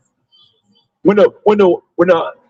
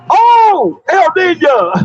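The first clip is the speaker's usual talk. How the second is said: mock scream; 7 semitones higher, much slower than usual. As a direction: yelp it out like a terrified victim. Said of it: "What they be screaming?".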